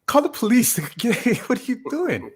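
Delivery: high, excited retold protest; mock-panicked high outburst; alarmed orders. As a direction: replay a flustered driver ordering a passenger out.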